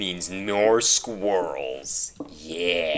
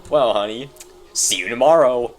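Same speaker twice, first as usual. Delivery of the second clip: cheery goodbye to honey; 5 semitones higher, 8 dB louder than usual. Pretend. Saying goodbye to wife.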